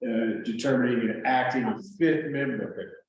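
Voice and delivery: talking with gum in mouth; words around chewing gum. Real, not acted. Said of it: "explaining that with chewing gum in my mouth".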